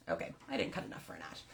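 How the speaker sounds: quick, quiet words through a breathy laugh; sheepish self-amused aside; laughing at herself. Real, not acted. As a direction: own up to the mistake while chuckling. Realizing she messed up the knot.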